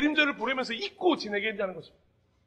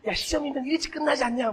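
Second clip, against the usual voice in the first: teasing Jesus; 3 dB quieter than usual. Pretend. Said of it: "뭐 이렇게 시겠어요?".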